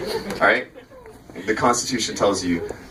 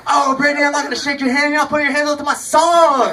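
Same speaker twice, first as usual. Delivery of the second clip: mock taunting; 14 semitones higher, 4 dB louder than usual. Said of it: "I go".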